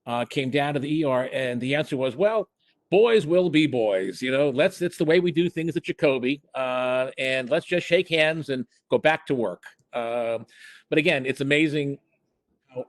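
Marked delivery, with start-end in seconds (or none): 2.1-9.6 higher, mildly imitated surgery chief waving it off; a hint of a chairman smoothing things over; lightly voiced chairman. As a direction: retell the chairman's easy dismissal, pitched up. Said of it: "the chairman of surgery".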